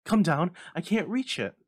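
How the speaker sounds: high, loud straining call; strained panting shout. A narrator's reading. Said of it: "strained and panting".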